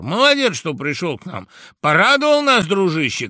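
high, loud merry shout; tipsy guests shouting. Acted. Tipsy guests loudly welcome the mouse. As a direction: cheer him like drunk revellers. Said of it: "кричали подгулявшие гости".

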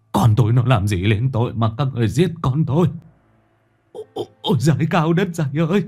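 put-on old father keening over his dead son, voice climbing high; lamenting old father rises into a shrieking cry; anguished wailing father. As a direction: wail it out, breaking and desperate. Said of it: "Lão run run rú lên một tiếng, nghe vô cùng thê thiết".

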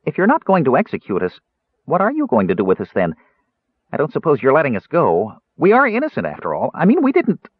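high, anxious Kender babble; faltering. A narrator's reading. Kender asking what will happen to them, faltering. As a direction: plead innocence nervously, high. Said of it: "Tass faltered".

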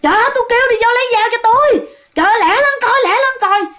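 high, rapid-fire mock outburst; retold angry cursing. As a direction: act out an exasperated man demanding hurry. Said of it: "Thì anh bạn quạo, anh bạn chửi". (giả giọng quạo, gắt gỏng, cao và gấp)

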